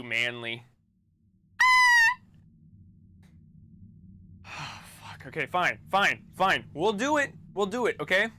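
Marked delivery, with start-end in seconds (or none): 4.4-5.3 put-on anime girl scream. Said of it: "I wanna hear you scream like an anime girl".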